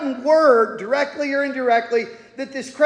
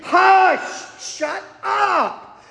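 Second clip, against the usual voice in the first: rebuking hush; 7 semitones higher, much slower than usual. Retold or imitated. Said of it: "No, they're rebuking him".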